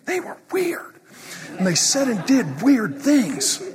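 weird gets a high squeak; mocking skeptic. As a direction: poke fun at the doubter. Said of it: "You're like".

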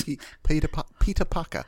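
lightly put-on British, R's dropped; mock British accent. Co-host repeating the tweet's joke, mock British accent. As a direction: try out a cartoon British pronunciation. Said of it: "British people watching Spider-Man be like".

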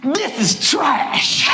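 blunt verdict. Retold or imitated. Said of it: "I said".

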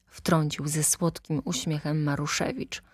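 ordinary delivery

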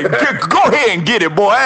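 somebody's uncle. Retold or imitated. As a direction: cheer him on like an uncle. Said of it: "I sound like somebody uncle".

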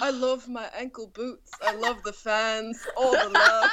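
Impression of a singer. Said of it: "sounds like an emotionless robot".

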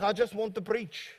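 mimicked South African accent. Pastor quoting his colleague's plea, South African accent. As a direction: play the visiting preacher with a South African accent. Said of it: "doing my South African accent".

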